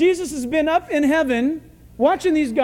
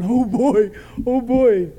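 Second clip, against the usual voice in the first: loud, eager relish; eager anticipation; 6 dB louder, slower than usual. Acted. Hungry Peter watching the sheet come down, excited.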